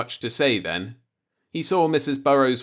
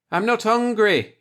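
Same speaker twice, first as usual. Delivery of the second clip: higher and louder, calling through a door; calling back; 11 semitones higher, 4 dB louder than usual. Acted. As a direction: call it back from behind the door. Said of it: "he called back".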